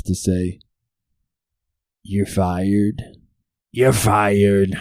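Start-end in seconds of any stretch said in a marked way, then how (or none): 2.0-4.8 a hint of a put-on catchphrase voice; lightly attempted presidential catchphrase; weak Trump impression; Donald Trump. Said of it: "Does that even sound like Donald Trump".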